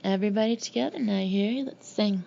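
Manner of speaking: quick Southern rallying call; rally them in a put-on Southern accent; folksy Southern put-on; mock Southern accent. Brother keeps up the Southern act.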